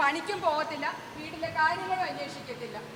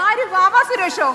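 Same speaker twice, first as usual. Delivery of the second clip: surprised; 3 semitones higher, 15 dB louder, slower than usual. Acted. Amazed guess at snake catcher.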